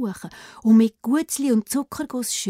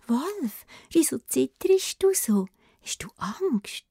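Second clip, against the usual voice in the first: put-on wondering girl; 5 semitones higher, slower than usual. Rotkäppli whispering in wonder to the scared wolf. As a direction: ask gently, half whispered. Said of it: "Es wundert sich".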